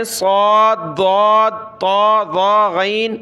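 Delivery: "صاد، ضاد، طا، ظا، غین" each heavy and rounded; thick letters. Shown as a demonstration. Teacher lists coloured letters, each read thick. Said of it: "ان کو موٹا پڑھنا".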